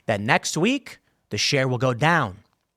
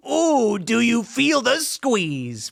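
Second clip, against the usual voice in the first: teasing; 8 semitones higher, much slower than usual. Acted. Teasing the hedge funds.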